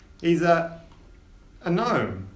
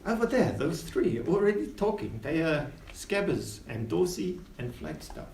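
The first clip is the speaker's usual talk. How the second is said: captain voice; 4 semitones higher, 3 dB quieter than usual. Acted. Captain character speaking.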